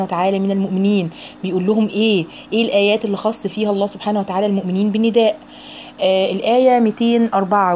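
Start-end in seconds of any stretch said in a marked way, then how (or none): none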